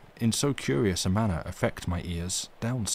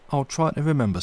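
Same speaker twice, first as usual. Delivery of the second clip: faint smile; 6 semitones higher, 4 dB louder, faster than usual. A narrator's reading. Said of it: "with the ghost of a smile".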